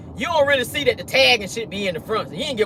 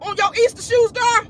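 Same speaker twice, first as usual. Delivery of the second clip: mock sassy retelling; 11 semitones higher than usual. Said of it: "He said".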